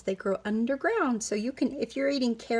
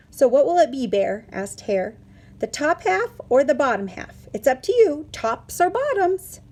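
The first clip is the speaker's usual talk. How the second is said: pushy Hare; 3 semitones higher, 6 dB louder than usual. Acted. Hare pressing Bear to choose.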